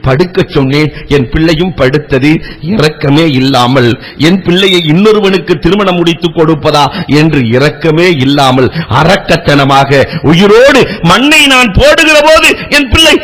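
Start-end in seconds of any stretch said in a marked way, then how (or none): 4.9-13.1 impassioned preaching. Acted. Preacher tells the congregation of the singer's tears, impassioned. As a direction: preach it with rising fervour.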